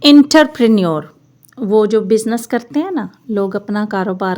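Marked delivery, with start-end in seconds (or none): 0.0-1.1 एंटरप्रेन्योर as "interprinior"; wrong pronunciation. Shown as a demonstration. Teacher showing the mistaken एंटरप्रेन्योर. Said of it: "ये सारा गलत है".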